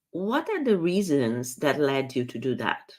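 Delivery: open, calm asking; curious question. Shown as a demonstration. Coach offering the better what question, curious and calm. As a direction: invite reasons without blame. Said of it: "It sounds much better".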